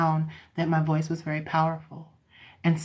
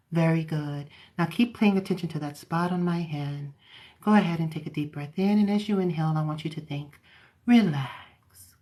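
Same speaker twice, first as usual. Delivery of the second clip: modulated therapeutic voice. Shown as a demonstration. Hypnotherapist inducing a client to relax, soothing modulated voice. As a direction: guide them down calmly, letting key words sink. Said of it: "I modulate my voice".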